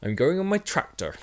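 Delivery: joking West Country farmer; West Country accent. Pretend. Joking with cohost about a tractor, in a West Country accent. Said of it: "said in a West Country accent".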